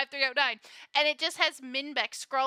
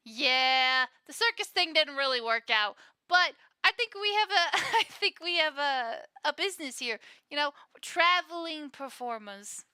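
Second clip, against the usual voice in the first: laughing NPC; 3 semitones higher, 4 dB louder than usual. Acted. NPC explains the circus business, breaking into laughter. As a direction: voice cracking with laughter mid-line. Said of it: "and he goes".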